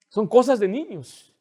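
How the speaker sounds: usual speaking voice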